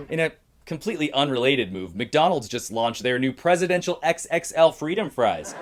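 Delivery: measured satirical news read; comedy news anchor. Acted. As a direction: present jokes as news headlines.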